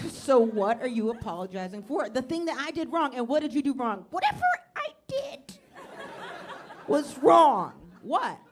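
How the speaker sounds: high, loud comic row that blows up; escalating shouted argument. Acted. Couple argues over a vague apology, shouting. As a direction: fight back and forth until it explodes.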